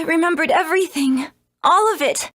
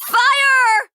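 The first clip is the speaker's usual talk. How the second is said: higher, louder startled cry; alarmed shout; 8 semitones higher, 5 dB louder than usual. Acted. Lynn sees the lighthouse burst into flames, shouting.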